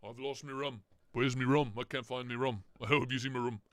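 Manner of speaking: lightly voiced pirate slurring; a hint of a drunken pirate; Johnny Depp impression. Streamer imitating Johnny Depp losing his rum, lightly. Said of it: "that's Johnny Depp who lost".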